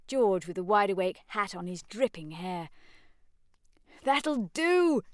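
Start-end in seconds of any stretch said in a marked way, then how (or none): 4.0-5.0 high, loud stern call; sharp shouted halt. Acted. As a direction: shout them to stop. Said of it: "shouted Mister Beebe".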